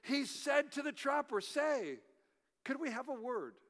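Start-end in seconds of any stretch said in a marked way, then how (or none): 1.4-3.5 lightly voiced British bear, softer at the end; British accent. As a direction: put on a polite British accent. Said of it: "strong British accent".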